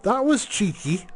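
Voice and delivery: excited laughing commentary. Real, not acted. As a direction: laugh through the cheeky move. Laughing at a surprise move.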